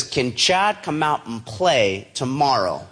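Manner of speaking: slowly spelling out each word; slow email read. Shown as a demonstration. Reading dad's email line aloud, slow and deliberate. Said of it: "It says".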